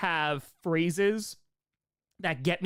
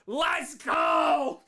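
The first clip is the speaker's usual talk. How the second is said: excited cheer; 7 semitones higher than usual. Real, not acted. Cheering a donation.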